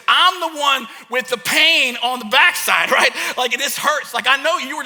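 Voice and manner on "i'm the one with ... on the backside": slow, stressed "I'm the one with the pain"; mock-indignant kid's complaint; indignant protest. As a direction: protest it, leaning on each key word. Acted protest to his dad.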